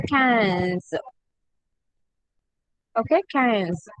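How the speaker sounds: "quinze" starting with a hard k, nasal vowel; slow, clear "quinze" from a k sound. Shown as a demonstration. Teacher showing qu sounds like K. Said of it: "Q U is pronounced with the sound K".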